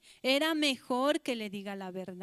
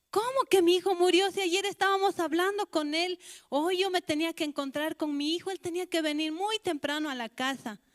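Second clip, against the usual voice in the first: shocked disbelief; 5 semitones higher, 5 dB louder than usual. Acted. Mother hears her son died.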